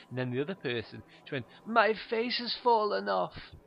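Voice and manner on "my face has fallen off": high, loud, slow swooning voice; overwhelmed art fan. Retold or imitated. Woman in a gallery, hammed-up swooning. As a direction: stretch it out like art broke you.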